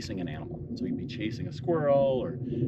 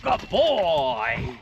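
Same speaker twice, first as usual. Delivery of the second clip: high, loud praise for the dog; 9 semitones higher, 8 dB louder than usual. Real, not acted. Owner praising her returning dog, high excited praise. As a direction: cheer him in like a proud owner.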